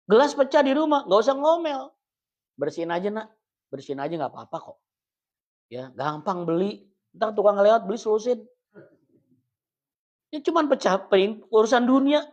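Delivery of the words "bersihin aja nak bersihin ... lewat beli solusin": gentle reassuring parent. Retold or imitated. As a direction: soothe the kid, no scolding. Parent soothing child over broken plate.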